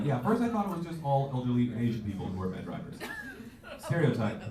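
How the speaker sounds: ordinary talk, nothing marked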